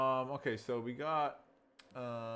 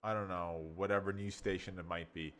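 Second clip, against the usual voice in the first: excited newscaster; 7 dB louder than usual. Shown as a demonstration. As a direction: sell the news with excitement. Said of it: "see the excitement? It's professional".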